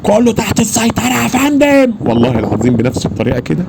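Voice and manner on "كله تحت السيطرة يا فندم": much higher, slow, clipped report to a superior; very official military voice. Retold or imitated. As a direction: deliver it like a formal military report. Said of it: "اللي هو الصوت اللي هو الرسمي خالص".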